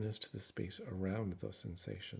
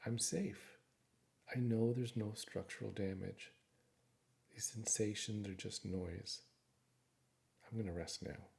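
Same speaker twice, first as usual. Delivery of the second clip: calm self-reassurance. Shown as a demonstration. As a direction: calmly reassure yourself, unhurried, with pauses between thoughts. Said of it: "Calmly remind your brain".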